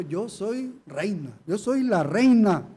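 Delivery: lightly voiced boastful queen of Babylon; proud queen boasting. Preacher voicing Babylon's boast to the congregation, haughty and slow.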